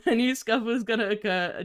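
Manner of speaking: repeated through a laugh. Real, not acted. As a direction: say it again, laughing.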